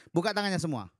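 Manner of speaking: rally the congregation with a loud call; preacher booming at his flock; loud command. Real, not acted. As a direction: open all your hands, called out loud to the room.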